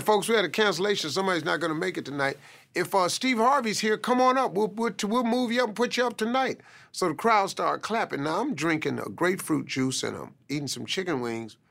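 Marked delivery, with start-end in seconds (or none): 0.0-6.6 club host announcing. Retold or imitated. Comedy club host calls the crowd, high fast emcee voice. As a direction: hype it up like a comedy club MC calling the next act.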